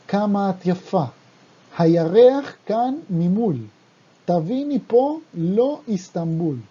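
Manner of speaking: brisk, rhythmic recital of the Hebrew verse; fast lyric read-through in Hebrew; reading song lyrics. Shown as a demonstration. Reads second Hebrew verse.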